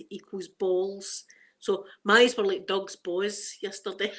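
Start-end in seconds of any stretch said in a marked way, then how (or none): 1.6-4.1 put-on broad Glasgow "Doug's boys" with a rolled vowel; Glasgow accent. Shown as a demonstration. Vlogger using the proper Glasgow phrase, broad Glasgow. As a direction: say it like a proud Glaswegian. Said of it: "that's the proper Glasgow".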